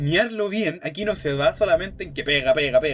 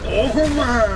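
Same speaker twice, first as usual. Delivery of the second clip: high, loud "take that"; triumphant shout; 7 semitones higher, 6 dB louder than usual. Real, not acted. Gamer hitting the boss, triumphant shout. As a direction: punch it out like a landed hit.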